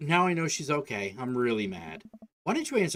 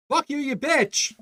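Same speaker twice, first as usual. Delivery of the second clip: higher, louder, slow and hammered out; pure teenage rage; furious scream; 12 semitones higher, 5 dB louder, slower than usual. Acted. Daughter screaming at her dad, furious.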